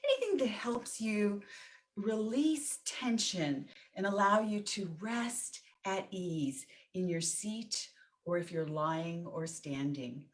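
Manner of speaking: measured, pausing meditation guide; guided meditation. Real, not acted. Teacher settling a group into meditation, guided meditation. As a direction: ease listeners gently into stillness, leaving space between phrases.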